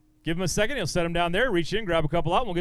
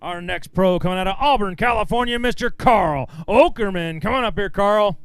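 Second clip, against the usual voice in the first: stage announcer; 4 dB louder than usual. Real, not acted. Emcee calls the next pro up, announcer style.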